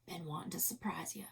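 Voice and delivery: hammed-up injured cowboy; mock pained whisper. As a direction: moan it weakly as the wounded one. Dying partner's last gift.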